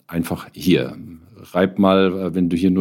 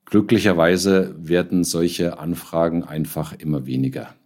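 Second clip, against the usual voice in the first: calmer; 2 semitones lower than usual. Real, not acted. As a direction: let the anger drain out, calm down. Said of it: "etwas sanfter stimmt".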